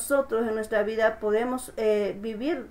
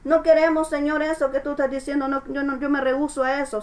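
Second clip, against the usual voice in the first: a mildly raised, stubborn refusal to God; 4 semitones higher than usual. Retold or imitated. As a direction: push back like someone refusing the call. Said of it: "Nosotros decimos". (negativa terca imitada)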